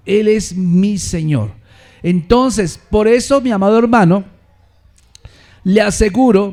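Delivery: loud, driving sermon voice building to a roar; fiery preaching. Acted. Pastor preaching to the congregation at full force.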